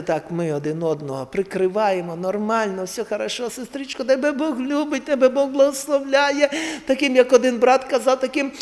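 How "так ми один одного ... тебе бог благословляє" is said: soothing flattery. Retold or imitated. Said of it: "І буває, знаєте".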